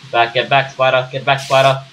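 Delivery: loud panicked shooing; shouting the spider away; shaking off a spider. Real, not acted.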